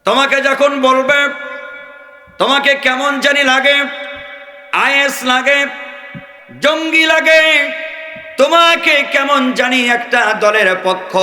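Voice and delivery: rousing waz-style oratory with long melodic cadences; fervent preaching. Real, not acted. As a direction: preach to a crowd, drawing out phrase endings.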